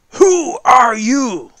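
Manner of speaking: loud, high, slow royal yell; royal shout. Acted. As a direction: bellow it from the platform.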